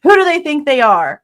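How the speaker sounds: real, rising anger; getting angry. Real, not acted. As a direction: vent the frustration, slowing down. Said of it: "this is why I'm getting angry".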